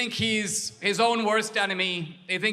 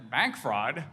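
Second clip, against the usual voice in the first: low, soft disbelieving repeat; "Bank fraud?" échoé, incrédule, plus bas; incredulous echo; 8 semitones lower, 4 dB quieter than usual. Retold or imitated. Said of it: "And I said".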